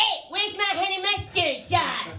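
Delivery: high-pitched, cartoonish voice. Joking about a fast food order gone wrong: Cartman voice. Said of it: "sounding like Cartman".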